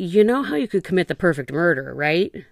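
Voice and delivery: acted condescending, obnoxious, patronizing know-it-all tone. Picturing drunk men sitting around shooting guns, the speaker mimics one: mock-patronizing mansplaining tone. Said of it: "in that obnoxious, mansplaining, patronizing tone".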